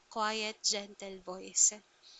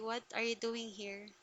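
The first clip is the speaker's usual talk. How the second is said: quiet, gentle questioning; 6 dB quieter than usual. Acted. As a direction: softly put question. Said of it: "quiet voice".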